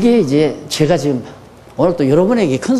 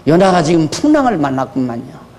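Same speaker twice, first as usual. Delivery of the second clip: mock pastor visiting; 5 semitones lower than usual. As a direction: tut sympathetically at the bedside. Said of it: "병원에 누워 있으면".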